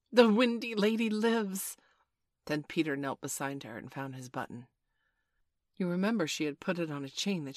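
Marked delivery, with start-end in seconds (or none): 0.1-1.8 loud, slow, high proclamation; cry. A narrator's reading. Slightly announcing Wendy is alive, joyful cry. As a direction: proclaim it jubilantly, stretching each word. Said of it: "Slightly cried instantly".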